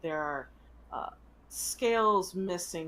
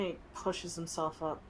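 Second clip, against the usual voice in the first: ordinary delivery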